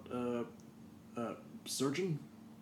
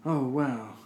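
surprised; 4 semitones higher, 8 dB louder, slower than usual. Retold or imitated. Sniffing perfume, retold.

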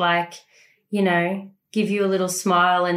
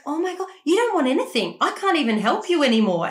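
exasperated parent; 6 semitones higher, faster than usual. Retold or imitated. Worn-out mother answering screaming child.

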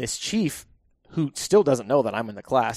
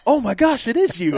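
much higher and louder, mock astonished; retold gasp of recognition from the presenting chief; surprised; 12 semitones higher, 6 dB louder than usual. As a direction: imitate the chief's shocked realisation.

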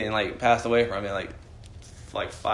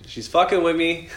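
higher, drawn-out mock alarm; slow, raised-voice realisation of being toyed with; mock disbelief; 6 semitones higher, 5 dB louder, slower than usual. Grandson reacts to strange happenings at home, mock disbelief.

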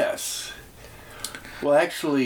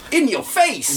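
high teasing shout; mocking taunt; 9 semitones higher, 4 dB louder, slower than usual. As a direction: taunt it loudly, sing-song. Mocking the slap.

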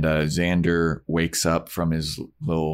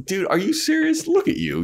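mocking disbelief. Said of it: "Spike's like".

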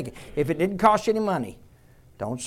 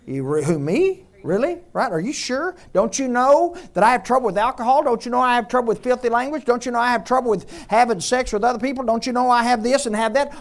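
higher, incredulous, stacking the objections; mock disbelief; 4 semitones higher, 3 dB louder, faster than usual. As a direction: protest that you can't be the one chosen. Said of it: "acting unworthy believer".

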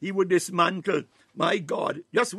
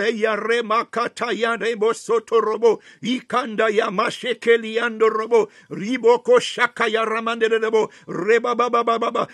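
speaking in tongues. Real, not acted. Praying in tongues mid-prayer.

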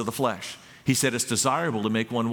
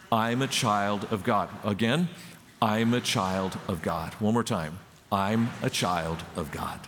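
put-on broad singsong kids theatre; 2 semitones lower than usual. Shown as a demonstration. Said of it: "can you say it with me".

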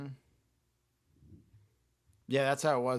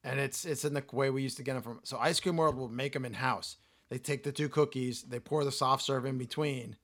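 hoarse, voice giving out; losing voice. Real, not acted. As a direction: talk through a hoarse, failing voice. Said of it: "Sorry, I'm losing my voice".

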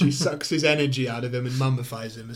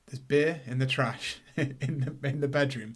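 deadpan. Retold or imitated. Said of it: "But, like, deadpan".

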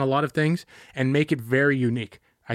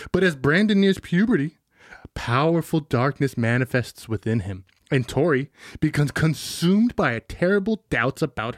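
dramatic trailer narration; movie trailer voice. Acted. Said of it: "Go back to your first voice".

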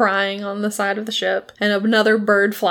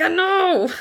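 high laughing quote; 10 semitones higher than usual. Retold or imitated. Lucius answers Black Pete.

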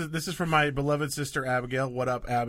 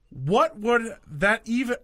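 mock baffled mom; 6 semitones higher than usual. Mom's baffled quote read aloud.

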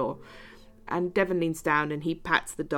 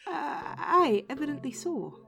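higher, doubtful Scottish woman; Scottish accent; 7 semitones higher, slower than usual. Acted. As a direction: agree hesitantly in a Scottish accent. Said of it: "when I start doing a Scottish accent".

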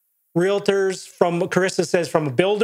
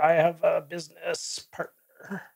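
dictating while typing; 6 dB quieter than usual. Real, not acted. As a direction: murmur it piecemeal as you type it. Sounds out chat entry while typing.

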